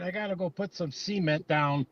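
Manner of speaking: cement as SEE-ment inside an example; quoted local pronunciation. Retold or imitated. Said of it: "I don't hear people calling it".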